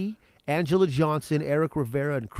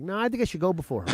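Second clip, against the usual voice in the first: mock pleading; 5 semitones higher, much faster than usual. Pleading with organizers.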